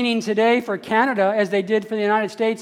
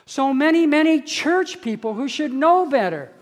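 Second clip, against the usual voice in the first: building emphasis; 4 semitones higher than usual. Real, not acted. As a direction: lean hard into the second so many. Preacher repeating for emphasis.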